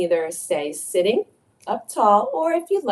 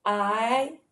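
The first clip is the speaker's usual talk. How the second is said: slow affirmation; 4 dB quieter, much slower than usual. Shown as a demonstration. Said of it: "Let's say that together".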